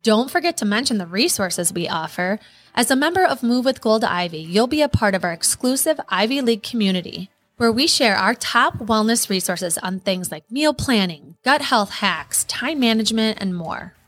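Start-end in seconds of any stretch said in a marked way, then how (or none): 2.8-13.9 ad read. Acted. Ad read over music.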